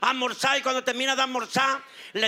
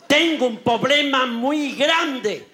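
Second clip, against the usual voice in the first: slow laughing complaint; 2 semitones higher, 4 dB louder, much slower than usual. Acted. Patient voice.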